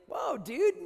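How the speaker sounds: loud high startled whoa; shouted surprise. Retold or imitated. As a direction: jump back in alarm. Friend reacting startled.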